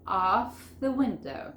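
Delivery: "of the window" drawn out slowly; slow linking demo. Shown as a demonstration. Teacher showing learners the joins, slow and linked. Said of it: "Vamos a unirlo todo esto".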